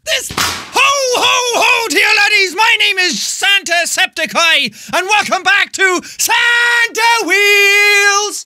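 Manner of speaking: ho-ho like Santa, then a slow yell. Acted. Dressed as Santa, greeting fans in a booming Santa voice.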